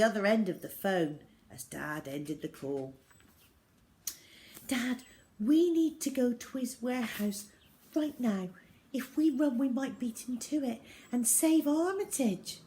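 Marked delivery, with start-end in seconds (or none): 4.7-12.6 put-on urgent girl. Zoe urgently pleading.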